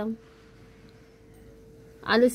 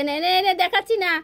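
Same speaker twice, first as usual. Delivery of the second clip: high, loud whiny cat voice for the pet; a cat that won't eat on camera, whined high; voicing the cat; 8 semitones higher, 4 dB louder than usual. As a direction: speak for the sulking cat, raised and pleading. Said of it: "সে খাওয়া বন্ধ করে দিয়ে".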